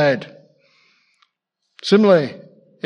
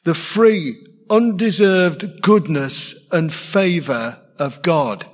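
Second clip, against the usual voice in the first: slow savouring. Shown as a demonstration. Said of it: "Listen to those words again".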